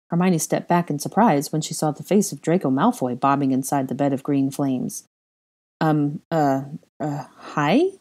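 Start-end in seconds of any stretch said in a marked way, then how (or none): 5.8-7.9 lightly hesitant, halting hello; awkward greeting. Acted. Hermione caught off guard greets Draco, mildly awkward. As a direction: stumble a little over the greeting. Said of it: "she greeted awkwardly".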